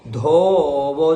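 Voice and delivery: धोवो with an aspirated ध; clear ध. Shown as a demonstration. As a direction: breathe out on the ध of धोवो. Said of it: "ध का उच्चारण करना है यहाँ पे". (धोवो में ध का स्पष्ट उच्चारण)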